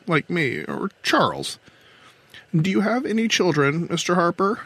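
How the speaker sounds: control captain, earnest. Acted. Captain explains the Virtual to her questioner, earnest. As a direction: explain earnestly in a high character voice.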